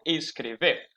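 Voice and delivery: "escrever" with a clear V, not a B; Portuguese V sound. Shown as a demonstration. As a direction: say "escrever" with the small-b letter, V. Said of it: "com lá B pequena". ("escrever" com som de V)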